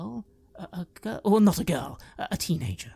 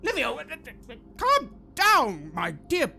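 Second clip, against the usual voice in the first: high, hesitant attempt to calm; stammer, trying to settle him down; a lightly voiced anxious man; nervous soothing; 10 semitones higher than usual. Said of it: "Ezio goes toward this man and says".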